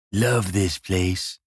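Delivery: slow, contented sigh of a line; happy sigh. Acted. King admiring his queen and harem, happy sigh. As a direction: say it slowly, pleased with your lot. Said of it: "He sighed happily".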